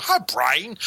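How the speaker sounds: high-pitched zany cartoon sidekick; Pinky. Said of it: "you hear Pinky go".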